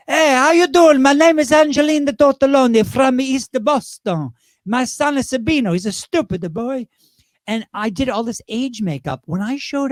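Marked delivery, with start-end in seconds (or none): 0.1-6.9 high, loud put-on East Boston widow; Angelina Tortelloni. Drag performer as East Boston widow introducing herself, high and loud. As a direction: belt out the introduction, then ease down. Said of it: "I created a character called Angelina Tortelloni".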